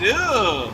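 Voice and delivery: a mock grossed-out groan of ugh; imitated disgusted ugh. Streamer mimics the woman's reaction to the smell, mock disgusted ugh. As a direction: copy her disgusted ugh, lightly. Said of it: "She said".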